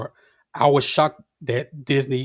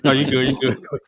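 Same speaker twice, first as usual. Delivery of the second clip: louder, laughing as you wave it on; 3 dB louder, much faster than usual. Real, not acted. Laughing after forgetting the point, handing over, amused. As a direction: talk through a real laugh.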